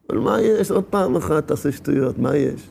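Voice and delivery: low, offhand tempter; casual coaxing. Acted. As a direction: play it down, softly tempting. Tempter coaxing in an acted dialogue.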